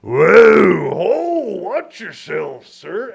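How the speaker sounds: high loud startled warning; zombie. Retold or imitated. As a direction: lurch back and warn him off. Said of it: "just like a zombie mode".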